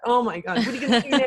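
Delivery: a hammed-up gremlin jeering; mocking inner gremlin. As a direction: needle yourself like a nasty inner critic. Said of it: "these little gremlins".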